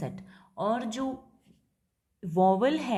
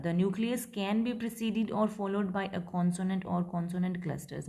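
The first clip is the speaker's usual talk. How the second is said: slow, word-by-word reading of the rule; slow dictation; much slower than usual. Shown as a demonstration. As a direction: dictate slowly for the class. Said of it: "teacher dictates English line". (धीमे-धीमे पढ़कर लिखवाना)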